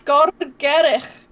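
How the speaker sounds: "Gorgerich" drawn out slowly, ending in a Welsh ch; careful Welsh pronunciation. Shown as a demonstration. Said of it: "I struggle to say it".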